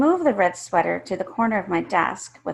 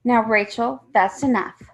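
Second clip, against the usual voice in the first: a mild mock scold, a bit louder; teacher telling Rachel to stop, mildly raised; teacher's loud rebuke; 3 semitones higher, 4 dB louder than usual. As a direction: rein in the child in front of the class. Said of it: "Missus Price says loud".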